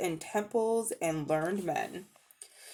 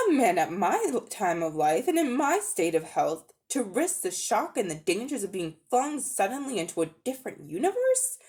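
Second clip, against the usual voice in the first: indignant Uncle Andrew; 3 semitones higher than usual. Acted. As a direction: scold the boy's preposterous idea.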